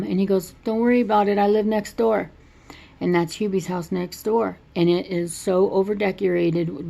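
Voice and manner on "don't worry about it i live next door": neighbor voice. Retold or imitated. Neighbor's voice in retold movie.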